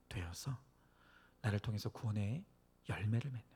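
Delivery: normal talking voice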